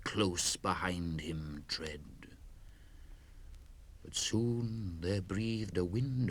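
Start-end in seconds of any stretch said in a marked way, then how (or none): 0.0-2.0 whisper. A narrator's reading. Fiend behind him.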